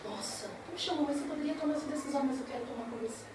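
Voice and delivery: a softly voiced loving husband; soft reply. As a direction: answer her gently and quietly.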